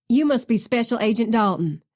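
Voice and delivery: light Southern twang; Southern accent. Acted. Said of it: "laden with a thick Southern accent".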